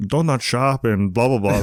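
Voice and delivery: hammed-up, bad German accent; badly faked German reporter accent; horrible German accent. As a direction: do a silly mock German accent. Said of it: "That's my horrible German accent".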